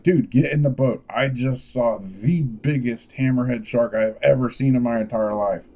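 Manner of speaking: imitating a worked-up friend; high, urgent alarm easing slightly; animated, excited. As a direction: blurt out a wild sighting to a buddy. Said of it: "He's freaking out, all animated, all excited".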